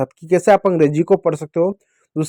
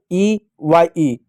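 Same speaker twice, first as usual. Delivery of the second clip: letters spelled out slowly one by one; slow spelling out; much slower than usual. Shown as a demonstration. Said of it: "ई से होगा". (धीरे-धीरे अक्षर बोलते हुए)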